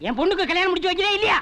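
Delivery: high, insistent outburst. Acted. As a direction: raise your voice and demand an answer. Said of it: "என்னடா sound குடுக்குற".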